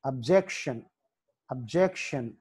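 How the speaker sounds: అబ్జెక్షన్ with the stress on "jec"; అబ్జెక్షన్, weight in the middle. Shown as a demonstration. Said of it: "జే దగ్గర stress mark".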